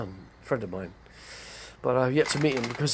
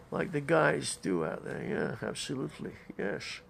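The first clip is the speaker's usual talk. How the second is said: Sean Connery; 2 semitones higher, 3 dB quieter than usual. Acted. Dressing up as the Bond actor, lightly imitated voice. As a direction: draw it out with a slushy s. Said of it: "dress up Sean Connery".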